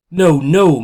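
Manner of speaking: high, loud cry of horror; anguished cry. Acted. Mother told her baby isn't breathing, loud anguished cry. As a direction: cry out against the news.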